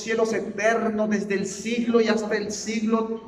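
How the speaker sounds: slow, loud, high and solemn, stretching every phrase; mock pompous prayer. A pastor mocking showy religious prayer in pompous tones. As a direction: ham up a stiff religious prayer. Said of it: "quiten de su mente".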